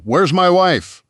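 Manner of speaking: high, loud demand; angry protester calling out; demanding shout. A narrator's reading. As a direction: shout for his missing wife. Protester demanding his wife.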